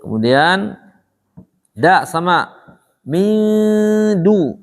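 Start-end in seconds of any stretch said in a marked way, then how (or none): 3.1-4.6 MIN DU with a long hum held forward before DU; drawn-out front nasal in "min du"; tongue-forward nasal. Shown as a demonstration. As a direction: hold the n of "min" forward, close to "du".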